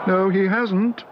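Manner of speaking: put-on high, excited girl's cry; young Judy exclaiming. A narrator's reading. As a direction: blurt it out, eager. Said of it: "exclaimed Judy".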